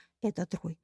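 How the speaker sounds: plain reading voice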